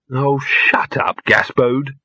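drawn-out oh, then a breathy hush on the name; hushed and exasperated. Acted. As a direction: wearily hush the talking dog. Hushed irritation at the dog.

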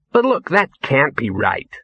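slow, strained reasonableness; small voice. Acted. Ginger holding off madness, small reasonable voice. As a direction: reason slowly against a touch of panic. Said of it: "in the small voice of one trying to be reasonable".

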